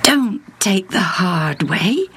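whispered temptation; Satan's suggestion. Acted. Satan tempting through Peter, whispered. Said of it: "he was suggesting".

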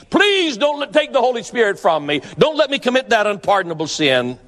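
opens high, then the plea eases down; a mild retold begging, not full anguish; pleading with God. David on his knees begs God, mild pleading voice. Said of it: "he pled with God on his knees".

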